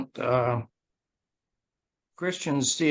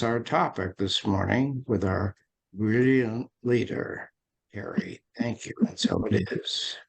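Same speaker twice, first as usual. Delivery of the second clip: measured, reverent group prayer; unhurried spoken invocation; opening prayer; 2 semitones lower than usual. Real, not acted. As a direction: lead the group in prayer, pausing between phrases.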